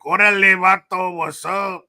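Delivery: imitating an LA cholo accent. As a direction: play an LA cholo saying hi. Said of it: "That's more like L A and shit".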